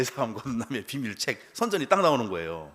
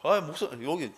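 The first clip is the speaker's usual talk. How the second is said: laughing; 2 semitones higher than usual. Retold or imitated. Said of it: "막 이렇게 막 웃으면서".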